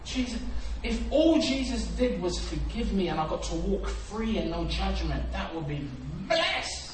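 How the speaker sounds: grateful prayer. Acted. Freed man praising Jesus, excited and loud. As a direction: thank Jesus with rising joy. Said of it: "I'll be like".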